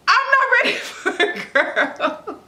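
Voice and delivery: high, stretched wail breaking into laughter; freaked out. Retold or imitated. Mother expecting a boy told girl, freaked out. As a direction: act out comic panic, laughing through it. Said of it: "I was so freaked out".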